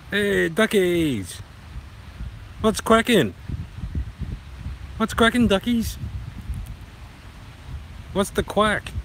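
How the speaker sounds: high, loud, playful greeting; calling to ducks. Acted.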